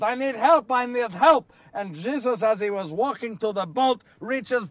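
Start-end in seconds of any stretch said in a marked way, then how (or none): 0.0-1.5 louder desperate call while sinking; calling out for help. Acted. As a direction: shout for help as you go under. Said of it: "he starts to call out".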